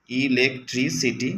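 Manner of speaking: ইলেকট্রিসিটি repeated slowly syllable by syllable. Shown as a demonstration. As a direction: spell out ইলেকট্রিসিটি slowly for pupils. (ইলেকট্রিসিটি ধীরে আবার বলা)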